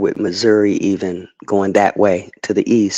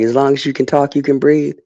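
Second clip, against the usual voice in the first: higher, mocking the brush-off; dismissive cop voice; 5 semitones higher than usual. Mimicking police dismissing a complaint, pitched higher and scornful. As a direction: toss off the line like an officer who doesn't care. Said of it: "And they're like".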